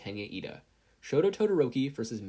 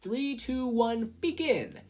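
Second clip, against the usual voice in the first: higher, louder, commanding referee voice; Midnight announcing; 10 semitones higher, 5 dB louder than usual. A narrator's reading. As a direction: referee starting the cavalry battle. Midnight starting the race.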